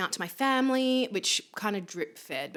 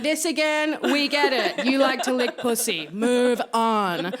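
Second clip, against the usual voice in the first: mock exasperation; 6 semitones higher, 8 dB louder, slower than usual. Retold bored family reaction.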